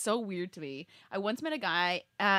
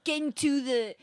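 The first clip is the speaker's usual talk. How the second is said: higher-pitched, hammed-up British accent; Russell Brand accent; 4 semitones higher than usual. Redoing the rom-com dinner speech, put-on British accent. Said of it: "That's my best accent".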